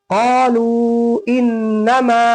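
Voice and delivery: "क़ालू इन्नमा" slow, "लू" held extra long; extra-long vowel. Shown as a demonstration. Teacher showing a longer stretch, extra-long vowel. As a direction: stretch "लू" well before "इन्नमा". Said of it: "यहाँ पे ज्यादा खींचा जाएगा".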